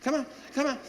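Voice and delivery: high silly voice cheering the puppy on a leash walk; silly dog-praising voice. Retold or imitated. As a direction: coo at the puppy in a goofy high voice. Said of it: "you have to say it in that silly voice".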